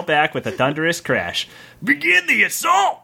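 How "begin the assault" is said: yelled command. Acted. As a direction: yell the order to charge. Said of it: "yelled the head bandit".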